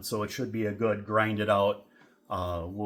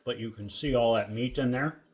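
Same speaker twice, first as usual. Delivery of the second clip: mouth full. Real, not acted. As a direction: still chewing, mouth full. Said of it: "I know I'm talking with my mouth full".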